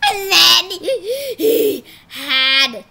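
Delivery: slow words through laughter; laughing. Real, not acted. Kid cracking up telling the story.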